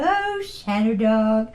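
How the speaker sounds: dog talk. Retold or imitated. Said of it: "they'd go".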